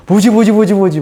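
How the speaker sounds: rapid-fire baffled repetition; retold bewilderment. Preacher retelling confusion at own crying, imitated bewilderment. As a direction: replay a startled inner voice.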